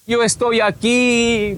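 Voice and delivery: slow, stretched-out words; drawn-out, effortful reply; imitated labored speech. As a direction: imitate someone struggling to get words out. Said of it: "No podía salirle bien las palabras".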